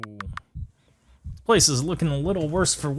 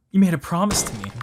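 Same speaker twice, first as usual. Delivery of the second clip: louder, higher plea; pleading cry; 6 semitones higher, 4 dB louder, faster than usual. Acted. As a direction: hold him to his promise. Partner pleading.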